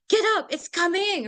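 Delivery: hammed-up frantic cry, pitched high; panicking mother. Shown as a demonstration. Teacher demonstrating a screaming mother's warning, melodramatic panic. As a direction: raise the alarm in melodramatic panic. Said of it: "a demonstration".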